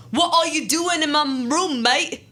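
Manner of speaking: a wobbly, slowed-down attempt at a British vampire; weird British accent. To the wandering girl, vampire asks in a wonky British accent. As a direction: put on a shaky fake British accent. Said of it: "he asked in a weird British accent".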